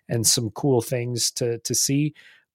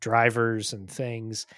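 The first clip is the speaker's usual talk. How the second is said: unimpressed. Real, not acted. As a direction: list it like nothing happened. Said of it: "if I sound a little bit underwhelmed".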